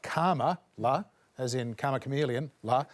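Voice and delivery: karma, la said with a long Australian ar; Australian pronunciation. Shown as a demonstration. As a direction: sound out karma, la like the song title. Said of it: "said with an Australian accent".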